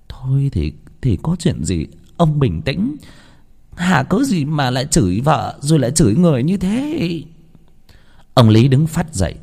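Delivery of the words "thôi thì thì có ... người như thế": gentle pleading. Acted. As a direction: soothe him gently, hushed start. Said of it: "rồi bà nhẹ nhàng".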